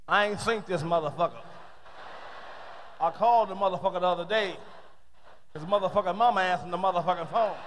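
lightly voiced guy complaining about Bobby, building up; brother talking. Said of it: "listen to two brothers talk".

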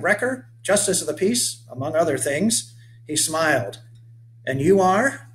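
rugged 1830s settler hailing a stranger; weathered old boatman. Acted. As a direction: call out to the boy like a sun-burned old sailor. Settler introduces himself.

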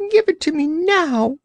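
high, insistent creature demand; demanding Orc. Acted. Orc demanding the biscuit from Cap'n Bill, high insistent voice. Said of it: "demanded the Orc".

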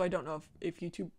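choked up from laughing; throat catching mid-laugh; choking up. Real, not acted. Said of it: "I'm choking up".

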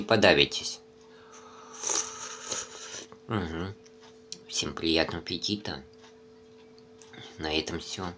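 chewing while talking; mouth full of noodles. Real, not acted. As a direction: spoon at the lips. Seen 5: Spoon of noodles at his lips, mouth full throughout the words.

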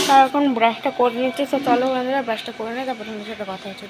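talking around a toothbrush; while brushing teeth. Real, not acted. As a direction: mouth full of toothpaste. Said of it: "brush করছি".

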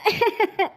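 short burst of put-on sobs; mock crying noise; fake sobbing. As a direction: sob theatrically without words. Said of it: "கொஞ்சம் அழுவுற மாதிரி மூஞ்சி வச்சுக்கோ".

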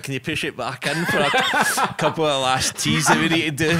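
pleading through giggles; asking while laughing. Retold or imitated. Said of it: "and I'm like".

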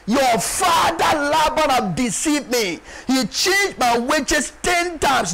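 slow, emphatic acted lament; Jacob. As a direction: draw out each grievance in a preacher's cry. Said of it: "Look at Jacob lamenting here".

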